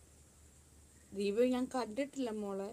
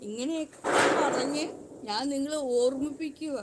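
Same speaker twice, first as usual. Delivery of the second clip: heated retort; 5 dB louder than usual. Real, not acted. Retorting to critics who mock her.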